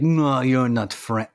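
slow, lightly put-on French accent; teasing French accent, drawn out; mock French accent. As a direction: imitate a dismissive French listener. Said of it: "I'm doing the accent again".

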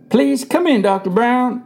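high, clear calling voice; loud and clear. A narrator's reading. Boy calling the doctor into father's room, clear. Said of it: "loud and clear".

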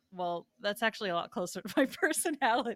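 understated deadpan retort, little pitch movement. Retold or imitated. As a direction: imitate a dry, matter-of-fact admission. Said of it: "Felicity deadpan being like".

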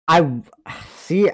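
usual speaking voice

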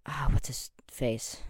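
slow whispered self-question; whispered aside. Real, not acted. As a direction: whisper it to yourself, slowly. Aside while forgetting a name.

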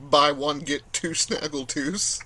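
fading into laughter, slow; can barely get the words out for laughing. Real, not acted. Friend cracks a joke while still laughing, laughing. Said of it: "I'm sorry, I'm still laughing".

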